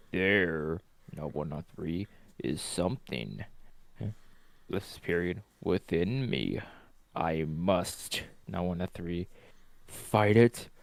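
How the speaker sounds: hushed, eerie, possessed creepy voice. Acted. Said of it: "spoke in a weird slash creepy voice".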